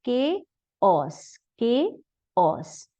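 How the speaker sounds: chaos as KAY-os, falling, said twice; model pronunciation. Shown as a demonstration. Teacher models chaos twice for the class. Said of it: "इस word को हम कैसे pronounce करेंगे".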